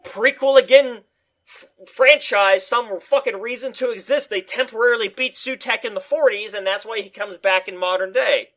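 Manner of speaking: shouted high cheer, then fast eager rant; excited. Pretend. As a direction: yell like a fan finally satisfied. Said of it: "I would have been like".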